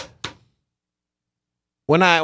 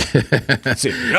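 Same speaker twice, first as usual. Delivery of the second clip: Optimus Prime; much slower than usual. Acted. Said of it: "Sounds like Optimus Prime".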